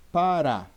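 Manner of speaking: Pará with a loud, forceful final RÁ; stress on final syllable of Pará. Shown as a demonstration. Teacher giving students an example word, Pará stressed on RÁ. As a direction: punch the last syllable of Pará. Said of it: "Qual é a sílaba que eu pronuncio mais".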